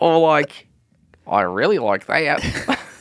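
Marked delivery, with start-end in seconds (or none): 1.3-2.8 bad, clumsy put-on New Zealand accent. Mimicking how people talk, in a terrible new zealand accent. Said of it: "that's a terrible New Zealand accent".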